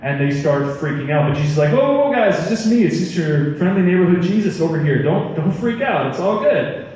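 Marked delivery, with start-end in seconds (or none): 1.7-6.9 higher-pitched, easygoing 'calm down, guys'; lightly acted reassuring buddy; casual reassurance. Jesus to freaked-out disciples on the lake, casually reassuring.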